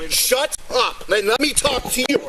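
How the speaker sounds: slow, forceful yell; angry command. Real, not acted. Officer silencing man who touched cop, angry yell. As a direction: yell each word to silence him.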